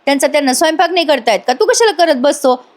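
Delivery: irritated retort. Retold or imitated. Girl scolding Yash over cooking for his brothers, irritated. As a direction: nag him briskly in mild irritation. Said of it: "आता ती चिडते आणि म्हणते".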